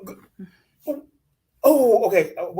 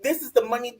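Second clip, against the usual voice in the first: heated rant; 6 semitones higher, 6 dB louder than usual. Real, not acted. Ranting loudly at cast member.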